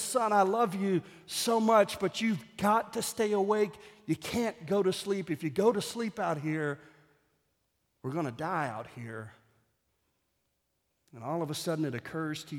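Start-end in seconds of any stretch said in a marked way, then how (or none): 0.0-9.3 tender fatherly plea. Acted. Father pleads gently with son.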